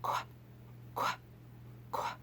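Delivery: short quail "Quack" calls. Shown as a demonstration. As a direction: quack like a little bird. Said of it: "she goes".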